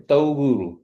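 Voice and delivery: "togul" said loud with a stopped T, tongue on teeth; emphatic "togul" with the T stop; slow exaggerated speech modeling. Shown as a demonstration.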